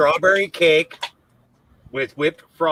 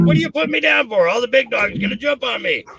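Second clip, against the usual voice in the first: high whiny puppy voice; voicing the dog; 8 semitones higher than usual. Owner voices her puppy complaining about being put down, high and whiny. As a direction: speak as the grumpy little dog, much higher. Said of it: "He's like".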